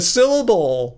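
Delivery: "syllable" pushed up on its first syllable; emphasized syllable. Shown as a demonstration. Showing viewers how they stress, emphasis on "syllable". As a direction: punch the start of "syllable" up in pitch. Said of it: "like that".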